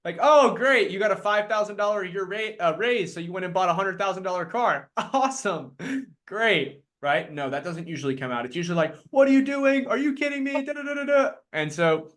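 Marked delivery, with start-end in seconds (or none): 0.2-6.8 sarcastic spouse. Retold or imitated. Spouse reacting sarcastically to car. 9.1-11.3 mock a spouse losing patience; exasperated spouse. Spouse scolding over bad decision.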